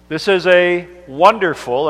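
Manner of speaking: emphasis on wonderful; stress on wonderful. Shown as a demonstration. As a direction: lean into the word wonderful. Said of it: "I emphasize the word wonder".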